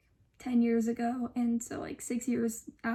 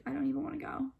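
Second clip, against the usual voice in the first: whispered mom quote; 5 dB quieter, much faster than usual. Retold or imitated. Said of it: "she was like".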